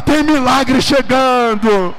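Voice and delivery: high, drawn-out full-force yell; prophetic shout. Shown as a demonstration. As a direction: shout the prophecy with everything you have. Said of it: "Põe a mão nele e grita". (grito profético, alto e arrastado)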